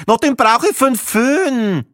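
a brusque retort about the hairdryer; gruff brush-off. A narrator's reading. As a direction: throw it in his face. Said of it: "ein unwirsches".

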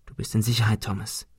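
soft, hushed reassurance; gentle near-whisper to an injured friend; whispered comfort. Acted. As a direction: murmur it softly by the sickbed. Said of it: "flüsterte Ben".

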